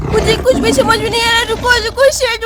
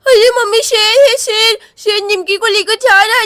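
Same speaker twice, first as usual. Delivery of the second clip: louder urgent cry; alarmed shout; 4 dB louder than usual. Acted. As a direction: shout the warning to mother. Girl alarms mother about lion. (घबराकर ज़ोर से पुकारना)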